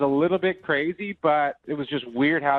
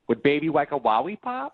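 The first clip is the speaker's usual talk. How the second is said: put-on baby voice; 2 semitones higher than usual. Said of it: "in a baby voice".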